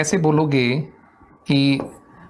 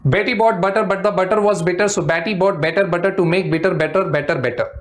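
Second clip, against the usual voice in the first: fast tongue twister. Shown as a demonstration. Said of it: "I'll try to speak it very fast".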